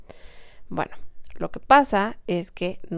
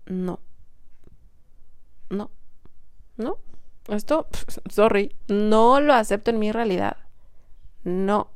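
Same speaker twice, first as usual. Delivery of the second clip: firm inner refusal. Shown as a demonstration.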